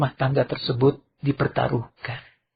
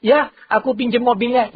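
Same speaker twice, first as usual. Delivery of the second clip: son; 9 semitones higher than usual. Acted. Good son asks for car.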